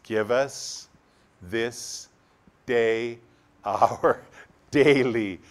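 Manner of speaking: each word drawn out slowly, a laugh on daily; slow, measured Lord's Prayer line. Shown as a demonstration. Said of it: "slow prayer line".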